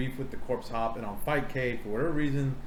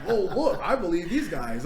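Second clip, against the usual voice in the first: higher, laughing mock Bill Nye; mock gullible scientist, higher and laughing; 5 semitones higher than usual. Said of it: "He'd be like".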